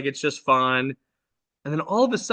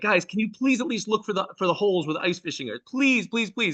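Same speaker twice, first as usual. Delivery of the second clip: pleading shout; 4 semitones higher than usual. Retold or imitated. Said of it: "I also screamed".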